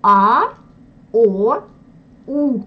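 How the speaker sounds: long, full Russian A, O, U; Russian vowels. Shown as a demonstration. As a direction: draw out A, O, U from back in the throat. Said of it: "nous prononçons les voyelles plus profondément".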